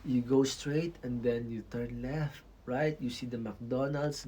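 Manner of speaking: slow, patient directions; walk them through the route slowly; lightly voiced helpful local explaining the way; helpful local giving directions. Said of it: "they will try their best".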